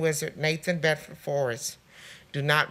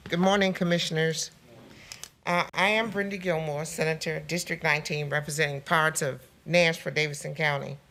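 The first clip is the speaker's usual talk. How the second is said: through a face mask. Real, not acted. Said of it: "Can you hear me through my mask?".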